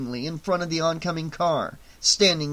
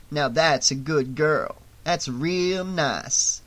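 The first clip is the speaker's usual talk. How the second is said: patronizing; slower than usual. Acted. Fox condescends to Vera.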